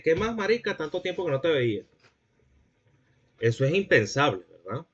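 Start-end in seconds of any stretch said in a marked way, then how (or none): 0.0-1.8 casual slang greeting. Retold or imitated. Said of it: "no van a llegar a decirle".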